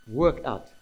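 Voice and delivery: firm, short order on "work out"; emphatic command. Shown as a demonstration. Preacher correcting the invitation reading, emphatic command. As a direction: state "work out" as an order, no question. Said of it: "It's an emphatic command".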